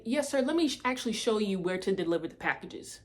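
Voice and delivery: eager polite helper. Retold or imitated. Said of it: "Attitude fixed up real quick".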